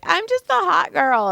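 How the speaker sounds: put-on high, affected ditzy girl; hot girl voice. Client talking to Joy while being worked on, ditzy hot girl. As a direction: imitate a put-on airhead voice. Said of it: "why are you talking like that".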